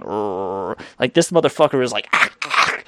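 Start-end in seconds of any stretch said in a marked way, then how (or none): 0.0-0.8 quiet low dog growl, imitated; a low, quiet rumbling rrrr; low mock growl. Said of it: "it's not, like, going". 2.1-2.8 high-pitched dog yelps. Retold or imitated. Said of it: "the high-pitched".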